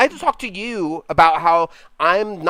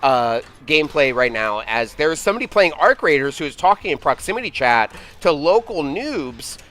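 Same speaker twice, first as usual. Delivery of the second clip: sportscaster voice. Acted. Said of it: "the sportscaster voice".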